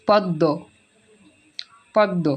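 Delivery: "পদ্ম" said pod-do, m silent; doubled-d pronunciation. Shown as a demonstration. Teacher modelling "পদ্ম" for pupils as pod-do. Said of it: "আমরা উচ্চারণটা করি কি".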